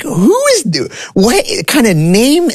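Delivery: very high, squeaky, slowed-down confused voice; mock bewildered squeal. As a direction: squeak it out like a baffled teen. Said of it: "And I'm like".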